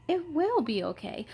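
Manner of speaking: softly comforting; reassuring. Acted. Comforting Alma softly. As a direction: soothe her gently.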